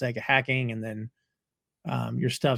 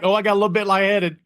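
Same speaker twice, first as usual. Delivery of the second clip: higher, fast, laughing mock out-of-breath voice; breathless Higgins; 6 semitones higher, 4 dB louder, faster than usual. Podcaster voicing Higgins after running the stairs, out of breath. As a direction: gasp it out like a winded man. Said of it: "Higgins is like".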